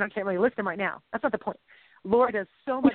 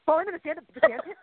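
getting excited; 5 semitones higher, slower than usual. Real, not acted. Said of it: "I'm getting loud".

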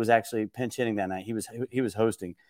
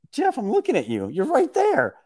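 high, raised call across the room; calling out to Jeff; 13 semitones higher than usual. Retold or imitated. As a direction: shout up to him, pitched high. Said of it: "I was like".

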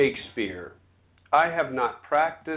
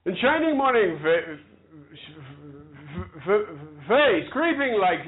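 stuck on the first sound; stammering. Real, not acted. Woman struggling to recite Shakespeare, real stammer. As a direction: force the word out after broken starts. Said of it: "feel like the damn King's Speech".

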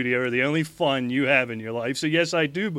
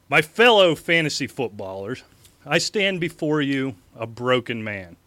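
mock campaign speech. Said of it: "Thank God you're not reading that".

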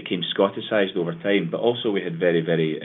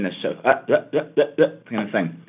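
glottal sound demo; 4 semitones higher than usual. Shown as a demonstration. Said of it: "You can hear this glottalization".

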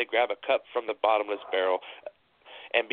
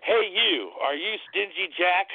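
hissed; 10 semitones higher, slower than usual. A narrator's reading. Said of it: "the bigger devil hissed".

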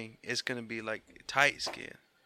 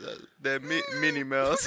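Mickey Mouse voice; 3 semitones higher, 6 dB louder than usual. Pretend.

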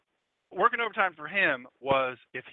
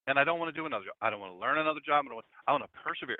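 imitating Dennis. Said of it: "He said".

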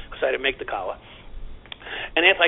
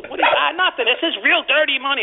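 high, louder, laughing through the words; 11 semitones higher, 5 dB louder than usual. Retold or imitated. A cop laughing about the dirty money, loud and laughing.

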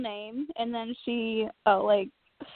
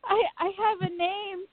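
imitating crying mom; 8 semitones higher than usual. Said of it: "And then she goes".

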